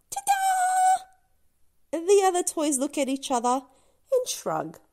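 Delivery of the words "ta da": very high, bright ta-da; triumphant ta-da. Acted. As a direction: announce it proudly. Lula's triumphant leap.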